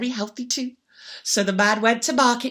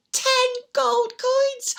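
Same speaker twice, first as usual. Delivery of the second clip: high slow reveal; slow rising amazement; 10 semitones higher, much slower than usual. A narrator's reading. Storyteller slowly revealing the ten coins. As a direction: land the number in wonder. Counting climax.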